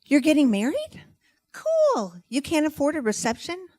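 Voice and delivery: high-pitched, gushing eagerness; uncontrollable generosity. Acted. Offering to throw a friend's wedding reception, hammed-up eagerness. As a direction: blurt offers in mock enthusiasm. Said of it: "words spew uncontrollably out of my mouth".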